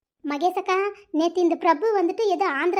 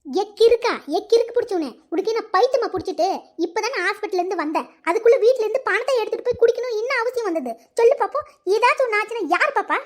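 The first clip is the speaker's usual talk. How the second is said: angry scolding. Acted. Wife scolds husband for drinking.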